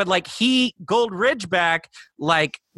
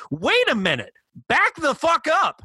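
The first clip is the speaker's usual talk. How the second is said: excited demand; 7 semitones higher than usual. Retold or imitated. Fan demanding a spin-off for the sidekick, excited. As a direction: pitch it up, insisting like a hyped fan.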